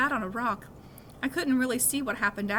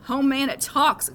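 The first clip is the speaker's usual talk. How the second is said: mock scream; 4 semitones higher, 8 dB louder, slower than usual. A narrator's reading. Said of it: "screamed Eddie".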